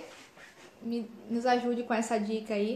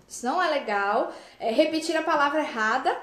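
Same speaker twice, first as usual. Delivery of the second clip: ordinary delivery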